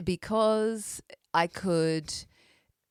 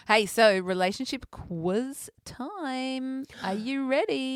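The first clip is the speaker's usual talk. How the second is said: excited announcer; 7 semitones higher, slower than usual. Acted. Announcing the quiz segment.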